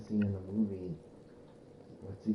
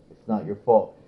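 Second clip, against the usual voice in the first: retold movie line; 13 dB louder than usual. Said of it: "He says".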